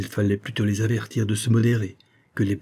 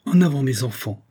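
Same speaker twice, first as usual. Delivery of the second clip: rallying shout; 3 semitones higher than usual. Acted. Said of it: "cria Gaston aux troupes".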